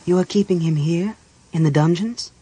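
a touch of dismay, rising; disbelieving question. Acted. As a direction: ask in disbelief, lifting the end. Chrysania questions the captive's conditions.

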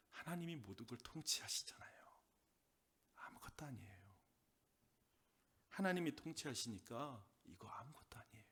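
soft reassuring whisper; whispered comfort. Acted. Pastor voicing a word to a hurting believer, whispered. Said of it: "이런 말일 것 같아요".

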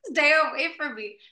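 high, slightly frightened plea; retold fear. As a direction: act out being scared, lightly. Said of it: "I was so scared".

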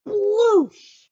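loud, high Kersploosh burst; loud, gleeful sound word for the child; splashy exclamation. Shown as a demonstration. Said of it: "and then ready?".

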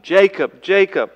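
loud, high call of a name, twice; God calling out. Pretend. God calling Jacob by name in the night, loud and high. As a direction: call his name from heaven, ringing out.

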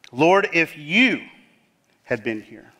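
slow "Lord, if you" with weight on "you", trailing off on "had been here"; stress on you. Shown as a demonstration. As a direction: press on "you" like a charge. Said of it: "It's almost as if she's accusing Jesus".

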